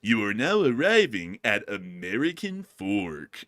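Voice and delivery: slow, drawn-out condescending announcement; condescending announcer. Retold or imitated. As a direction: imitate a snooty train announcer, stretching the words. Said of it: "he sounds so condescending".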